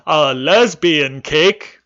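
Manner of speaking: LESBIAN drawn out very slowly and loudly; mock overdone keyword. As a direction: exaggerate it like bad acting, blaring LESBIAN. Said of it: "They wouldn't".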